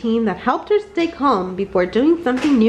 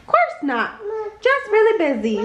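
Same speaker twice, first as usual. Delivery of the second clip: buzzing bee; 9 semitones higher than usual. Acted. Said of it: "buzzed Hank".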